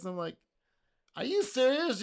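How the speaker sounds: ordinary talk, nothing marked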